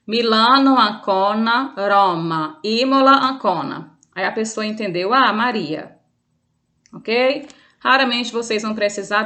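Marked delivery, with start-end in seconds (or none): 0.1-3.9 deliberate word-by-word city list; repeating a spelling. Shown as a demonstration. Teacher repeating the spelled name for a listener, spelled out word by word. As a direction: recite each code word distinctly. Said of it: "Vou repetir".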